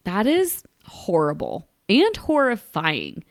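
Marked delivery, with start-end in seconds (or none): 0.0-1.7 slow, horrified whisper. Real, not acted. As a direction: breathe it out in shock. Reacting in mock horror.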